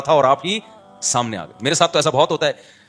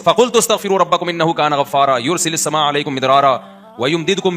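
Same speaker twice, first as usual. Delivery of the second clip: flowing chant with long vowels; Quran recitation; slower than usual. Acted. Preacher reciting Noah's call to his people, flowing recitation. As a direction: recite in a steady, carrying flow.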